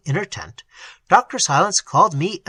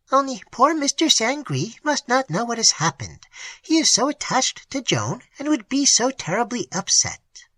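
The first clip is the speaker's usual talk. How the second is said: high, breathless whisper of panic; terrified whisper; 8 semitones higher than usual. A narrator's reading. Frightened mate begs the others to keep it secret, whispering. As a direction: hush it in terror so Sangre won't hear. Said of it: "added the boatswain's mate distractedly".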